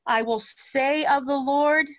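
a little extra weight on "say"; lean into SAY. Shown as a demonstration. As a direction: stress "say", then carry on through "of the Lord". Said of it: "lean into say a little bit".

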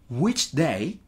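short, careful model chunk for learners; repeat-after-me phrase. Shown as a demonstration. Teacher asking students to repeat, careful chunked delivery. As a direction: say it distinctly, then leave room to repeat.

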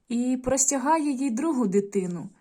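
put-on storytelling voice for young pupils; story narration. A narrator's reading. Teacher reading a folk tale to the class, gently. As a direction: read the tale aloud to children.

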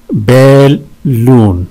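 "बैलून" very slow, in two long beats; syllable breakdown. Shown as a demonstration. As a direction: stretch both syllables of "बैलून". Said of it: "इसमें दो हैं". ("बैलून" दो हिस्सों में, बहुत धीरे)

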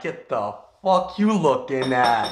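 mildly mocking challenge; imagined confrontational animal voice. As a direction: voice the animal picking a fight. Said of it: "he's like".

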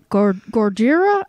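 stumbling attempt at a Japanese accent; bad Japanese accent. Host retries kaiju-style word, botched Japanese accent. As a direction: falter through a fake Japanese accent. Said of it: "trying to do Japanese and".

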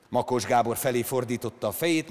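usual speaking voice

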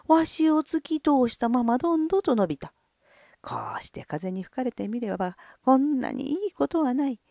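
put-on ghostly whispered old voice; hushed voice of the dead; creaky wise old man. The dead man's skull speaks. (亡霊のささやき声)

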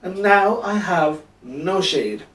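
high, loud, drawn-out moan; groaning complaint. A narrator's reading. Jonah moaning that his shade is gone, loud groan. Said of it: "he groaned".

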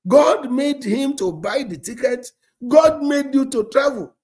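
high, loud preaching to her; rising fervent encouragement; fervent exhortation. Retold or imitated. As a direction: build the fervour. Pastor exhorting her, retold.

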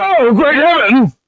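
high, slow, drawn-out gasp of shock; shocked exclamation. Acted. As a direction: clutch your pearls.

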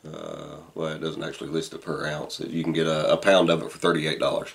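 talking around pipe stem; pipe in mouth. Real, not acted. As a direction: lips clenched on pipe. Seen 5: Pipe stem held between lips while he talks, most frames.

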